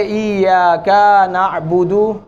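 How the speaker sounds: इय्याका with the final a stretched; wrong long ending. Shown as a demonstration. Teacher showing the wrong reading. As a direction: drag out the ka in इय्याका. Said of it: "ये गलत हो जाएगा".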